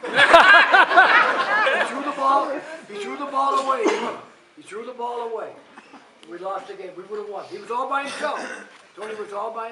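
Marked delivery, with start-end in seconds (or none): 0.1-3.8 laughing through the words. Real, not acted. Laughing while telling.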